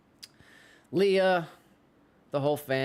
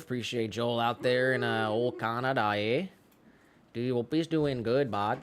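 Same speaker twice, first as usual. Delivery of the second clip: put-on Canadian accent. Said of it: "I'll throw out the Canadian accent".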